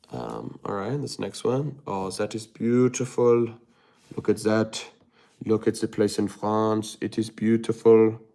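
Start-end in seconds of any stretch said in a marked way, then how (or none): 1.8-8.2 admiring tourist in a mock European accent; hammed-up European accent; put-on European accent. Put-on foreign accent admiring France photos.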